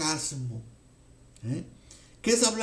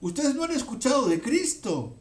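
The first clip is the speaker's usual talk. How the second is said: mildly scornful; 3 semitones higher than usual. Retold or imitated. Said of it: "les está diciendo".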